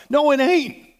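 high, loud, emphatic no; loud rebuttal. Real, not acted. Preacher flatly rejecting the fear of demons, high and loud. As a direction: shoot the objection down hard and high.

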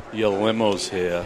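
wife's formal announcement. Retold or imitated. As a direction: announce it like a chauffeur's arrival. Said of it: "That's the way she says it".

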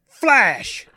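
high, loud burst; shouted command. Acted. Dwayne firing his ring, shouting the command. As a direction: fire it off like a trigger word.

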